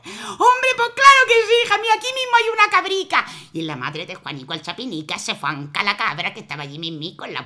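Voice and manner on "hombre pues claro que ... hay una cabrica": high, fast neighbour's reply. Acted. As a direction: answer breezily. Neighbour answers.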